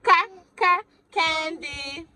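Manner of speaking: sounding out letters. Shown as a demonstration. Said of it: "sounding out letters".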